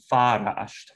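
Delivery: "farasht" stressed on its first syllable; slow, careful "farasht", first syllable stressed. Shown as a demonstration. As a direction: say "farasht" with the weight on the opening syllable. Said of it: "bears stress on its first syllable".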